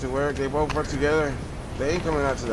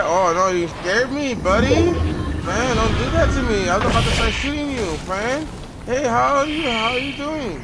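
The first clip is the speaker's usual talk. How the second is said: startled excitement; 4 semitones higher than usual. Real, not acted. Startled by another player.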